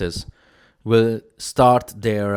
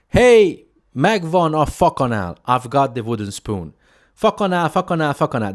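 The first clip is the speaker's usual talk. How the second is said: loud call across a shop, Hungarian words ringing out; retold shouting across the shop; 5 semitones higher, 3 dB louder than usual. Young son calling his mom across Wilko, shouting. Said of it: "That's how I, I shouted it".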